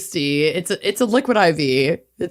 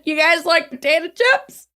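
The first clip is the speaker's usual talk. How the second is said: put-on Minnesotan accent; 8 semitones higher than usual. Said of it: "worst Minnesotan accents".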